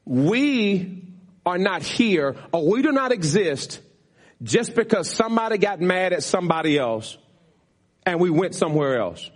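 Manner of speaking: weighty phrases with long pauses; emphatic. Real, not acted. Pastor setting the congregation straight on why they exist, emphatic. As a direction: state it firmly, piece by piece. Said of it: "I need to say this emphatically".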